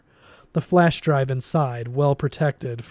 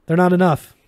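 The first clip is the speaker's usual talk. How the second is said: louder, clipped dismissal; firm retort; 5 semitones higher, 8 dB louder, faster than usual. A narrator's reading. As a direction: shut the idea down hard. Dismissive reply under fire.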